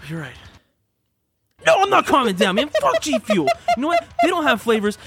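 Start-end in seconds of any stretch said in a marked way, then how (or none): 1.7-5.0 high, heated mock outrage; worked-up rant. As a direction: refuse to calm down, heated. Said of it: "calm, calm down".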